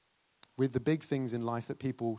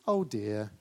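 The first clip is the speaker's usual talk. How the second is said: calm amused mum; 4 semitones lower than usual. Retold or imitated. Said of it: "they just laugh about it".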